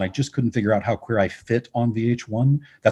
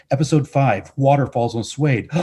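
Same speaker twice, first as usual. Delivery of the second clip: mock-dramatic build, higher pitched; 4 semitones higher than usual. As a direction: sell it like a gasping TV teaser. Retells a dramatic show pitch.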